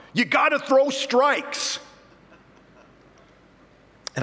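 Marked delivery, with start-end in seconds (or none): 0.1-1.8 high, slow heckling yell from the stands; hollered heckle. Retold or imitated. Dad in the stands heckling the pitcher, slow yell. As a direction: bellow it like a know-it-all dad. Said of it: "he'll holler out".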